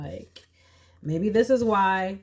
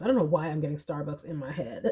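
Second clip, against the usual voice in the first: laughing; 3 semitones lower, faster than usual. Real, not acted. Laughs at her own thought.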